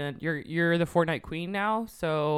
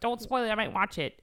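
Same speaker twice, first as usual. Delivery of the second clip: exasperated quote; 6 semitones higher, 4 dB louder than usual. Retold or imitated. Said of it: "you're like".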